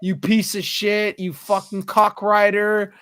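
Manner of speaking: mildly acted aggressive rant; imitated angry tirade. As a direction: imitate a friend losing his temper, drawing out the insults. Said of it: "Jed doesn't get angry? Like, aggressive?".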